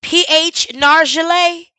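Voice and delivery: building from slow, sarcastic questions to a loud yell; incredulous rising shout. Real, not acted. Streamer to the chat about the dead expert, incredulous rising shout. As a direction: keep pressing until it bursts out.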